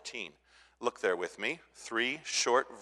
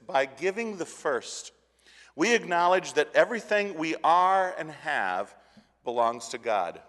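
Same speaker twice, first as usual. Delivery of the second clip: reading the notes aloud; 4 semitones higher, 4 dB louder than usual. Shown as a demonstration. Pastor reads the principle from the notes, measured. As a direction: read it out like a creed. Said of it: "The sentence reads like this".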